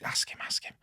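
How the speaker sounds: hushed, urgent whisper; imitated whispering between friends. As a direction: whisper it low, as if egging a friend on. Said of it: "I could see them whispering".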